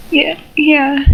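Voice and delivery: stuttered, lightly sniffly reply. Acted. Sally answering at the funeral, mild sniffling. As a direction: answer with a touch of held-back tears. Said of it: "she sniffles".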